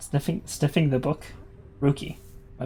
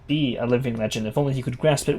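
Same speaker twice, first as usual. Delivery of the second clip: Gol Gothaniel. Acted. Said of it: "In the words of Gol Gothaniel".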